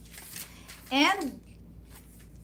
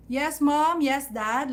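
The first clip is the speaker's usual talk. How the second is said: proper answer; 4 semitones higher, 5 dB louder, slower than usual. Shown as a demonstration.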